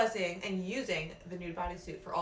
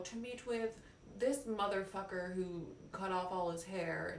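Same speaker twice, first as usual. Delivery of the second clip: mock spiritual seeker; 3 semitones higher than usual. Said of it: "We all are like".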